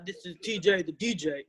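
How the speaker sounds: hint of a low, soft DJ voice. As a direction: drop into a mild DJ voice. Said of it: "Do your D J voice".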